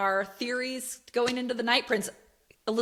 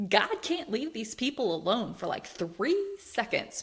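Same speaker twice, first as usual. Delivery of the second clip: fed-up, incredulous whine; exasperated retelling; 4 semitones higher than usual. Retold or imitated. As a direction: complain in mock disbelief, stretching the key words. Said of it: "he was just like".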